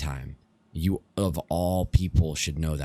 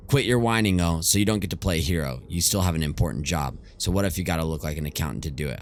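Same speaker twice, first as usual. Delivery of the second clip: lightly voiced scolding friend. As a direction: lightly scold a sulking pal. Ajay scolds the sulking narrator.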